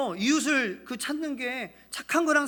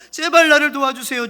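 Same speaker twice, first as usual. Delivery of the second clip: desperate plea; 5 semitones higher, 11 dB louder than usual. Acted. Beaten man's plea.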